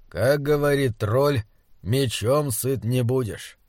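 slow, measured drawl; slow, laconic. Acted. Grimmric rising to leave the cave, slow and laconic. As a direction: take your time, unhurried. Grimmric drily quotes the troll.

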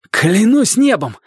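high, drawn-out oath; heartfelt storybook exclamation; exclaiming. A narrator's reading. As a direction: exclaim it slowly with rising pitch. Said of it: "воскликнул Дик".

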